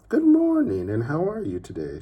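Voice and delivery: very high, loud sing-song greeting; cheery neighbor. Acted. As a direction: neighbor trilling good morning across the fence. Neighbor Miss Lark greeting.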